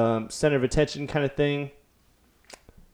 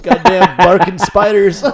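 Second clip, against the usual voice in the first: booming tipsy uncle; 5 semitones higher, 9 dB louder, slower than usual. Retold or imitated. Dad voiced after a fart.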